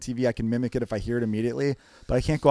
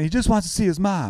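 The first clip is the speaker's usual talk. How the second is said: A C imitation; 5 semitones higher than usual. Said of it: "the whole time A C's saying".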